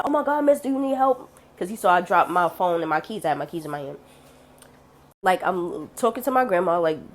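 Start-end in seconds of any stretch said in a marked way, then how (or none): 0.0-1.3 imitated high-pitched concern; concerned bystander. Cab driver to fallen woman across the street, concerned. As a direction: call over worriedly, voice raised in pitch.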